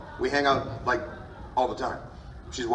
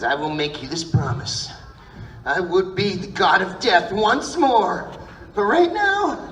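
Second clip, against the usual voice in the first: anime hero line; 5 semitones higher, 3 dB louder, slower than usual. Acted. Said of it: "learned a lot of lines based on that show".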